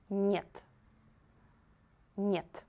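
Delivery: Нет said "nyet", soft N before E; soft consonant. Shown as a demonstration. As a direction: model Нет with a softened N. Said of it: "letter should be softer".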